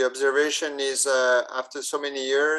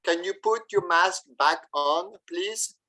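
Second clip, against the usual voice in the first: polite request role-play; 5 semitones higher than usual. Pretend. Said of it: "if you use your French accent".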